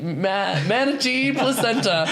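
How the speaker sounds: a laugh breaks into the read; stifled laugh on the words; laughing through the words. Real, not acted. Presenter cracks up reading the product copy aloud. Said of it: "Ooh, that one got me".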